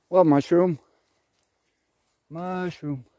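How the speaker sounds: singsong calling. Acted. Calling out for mushrooms.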